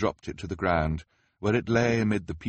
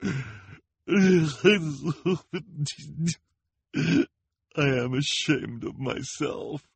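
put-on slow, accent dropped, a bit higher; unaccented voice; 8 semitones higher, slower than usual. A narrator's reading. Lulu confesses to the orphans, slow in her own unaccented voice. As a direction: let the fake accent fall away, plainly. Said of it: "in an unaccented voice".

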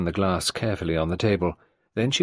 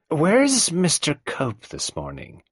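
sudden anger; 9 semitones higher, slower than usual. Acted. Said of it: "made her own snap with sudden anger".

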